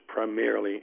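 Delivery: "primarily" given deliberate, measured weight; stress on primarily. Real, not acted. Lawyer qualifying what declarations of war meant, stress on "primarily". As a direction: set "primarily" slightly apart for emphasis. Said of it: "I emphasize the word primarily".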